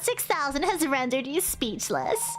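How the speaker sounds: sweetly menacing boss voice; yandere voice. Acted. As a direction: purr it like a sweet, dangerous boss. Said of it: "I'm giving her a yandere sort of voice".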